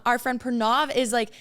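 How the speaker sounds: ordinary delivery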